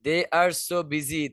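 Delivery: "They are so busy" said very slowly, are stressed; slow repeat. Shown as a demonstration. Teacher repeating again for students: very slow. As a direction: drag out each word. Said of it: "repeats the recording slowly".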